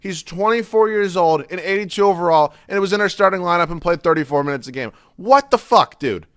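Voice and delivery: loud, high, slow furious ranting at a player; real frustrated gamer rant, loud and slow; angry rant. Real, not acted. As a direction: yell at him in real exasperation, stretching the words. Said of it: "Sorry for my rant".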